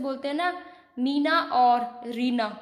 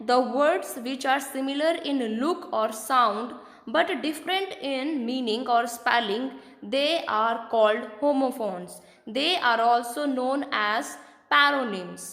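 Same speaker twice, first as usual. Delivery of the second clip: slow dictation; much slower than usual. Shown as a demonstration. Slow definition read to class.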